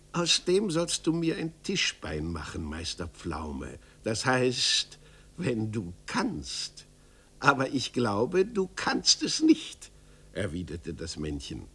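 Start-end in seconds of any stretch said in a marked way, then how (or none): 0.1-9.9 lightly voiced hunchback, teasing challenge; provoking little man. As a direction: needle him with mock doubt.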